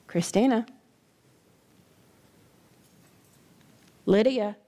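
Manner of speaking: low, softened single names; gentle name-calling. Acted. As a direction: say each name gently, letting it land. Somebody gently says your name.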